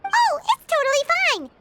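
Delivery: high, bright reassurance; cheerful. Acted. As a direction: brush it off cheerfully.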